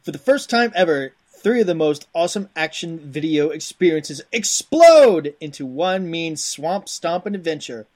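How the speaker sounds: hammy Cajun game-box hype; punchy back-of-the-box read in a rough Cajun accent; put-on Cajun accent. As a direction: read it like a Cajun swamp-adventure trailer. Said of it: "There's some Cajun".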